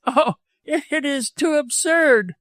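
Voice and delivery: slow, very high exclamation; mirthful scorn. A narrator's reading. Widow laughs off doctor's love, mirthful scorn. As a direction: scoff in a high, drawn-out voice. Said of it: "burst out laughing".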